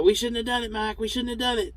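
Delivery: a hint of the driver moping over it; regretful driver. Larry regretting the bent bumper.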